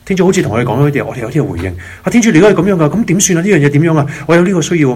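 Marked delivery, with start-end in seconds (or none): 2.0-4.9 higher-pitched, lightly acted appeal; believer addressing God. Believer answering God in an imagined dialogue, lightly acted higher-pitched appeal. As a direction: put your need to God in a raised voice. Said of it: "開始就變咗有個對話啦".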